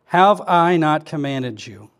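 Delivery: slow, deliberate verse reading; measured, unhurried recitation. Shown as a demonstration. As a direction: read it slowly, word by word. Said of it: "We just gotta slow down".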